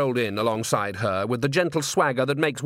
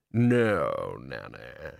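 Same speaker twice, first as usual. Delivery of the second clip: sulky reply; 10 semitones lower, 3 dB quieter, much slower than usual. A narrator's reading. Grebo's sulky low reply.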